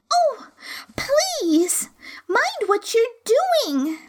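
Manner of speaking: put-on very high, panicked girlish plea; terrified cry. A narrator's reading. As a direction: beg them to stop in terror. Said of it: "cried Alice ... agony of terror".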